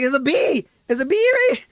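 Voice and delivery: high, loud frantic shouting; panicked child. Retold or imitated. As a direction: blurt it out in panic to mom. Panicked kid telling mom.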